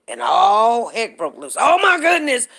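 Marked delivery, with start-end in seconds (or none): 1.6-2.5 higher, louder mock outrage; put-on shock, pitched up; mock alarm. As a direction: imitate a scandalised overreaction. Acts out the online uproar.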